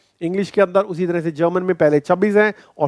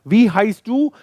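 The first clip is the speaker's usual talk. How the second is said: asking a name; 4 semitones higher, much slower than usual. Retold or imitated. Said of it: "पूछता है".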